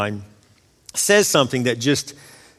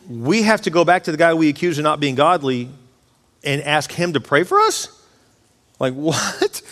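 incredulous. Retold or imitated. Friends balk at God's order.

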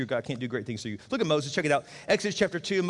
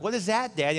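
put-on light child voice, higher, curious; kids asking; 6 semitones higher than usual. Pastor voicing his young kids asking their dad, light child voice. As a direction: ask it like a puzzled little kid. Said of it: "And they're like".

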